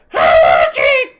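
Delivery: loud, low squawked bird word. Acted. Axe beak demanding a snack from Stella, loud squawk. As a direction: bark it out like a hungry bird. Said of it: "the axe beak says".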